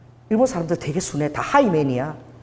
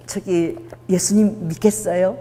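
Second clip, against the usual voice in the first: timid asking; slower than usual. Retold or imitated. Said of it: "예수님 전화하면 이래 되는데".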